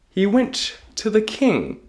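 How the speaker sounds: usual speaking voice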